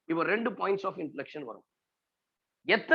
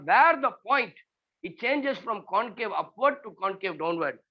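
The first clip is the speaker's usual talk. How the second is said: slow dictation; much slower than usual. Shown as a demonstration. Dictating a definition.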